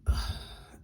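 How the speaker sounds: heavy wordless exhale; frustrated sigh. Real, not acted. Frustrated by his message.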